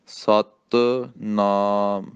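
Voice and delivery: ਸਤਿਨਾਮ very slowly, ਸਤਿ held; ਹੌਲੀ ਉਚਾਰਨ; slow recitation. Shown as a demonstration. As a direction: model the word for students. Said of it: "ਸਤਨਾਮ ਨਹੀਂ ਕਹਿਣਾ".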